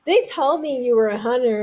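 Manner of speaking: slow, half-hearted mock wail; mock whiny. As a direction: draw the words out in a slow whine. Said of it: "then she gets really, really whiny".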